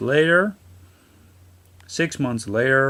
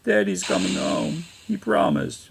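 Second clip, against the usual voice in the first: put-on higher child voice, stubborn; insistent little girl; 8 semitones higher than usual. Girl telling her mother her father will return, high child voice. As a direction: hold on to hope like a small kid. Voicing girl who doesn't understand.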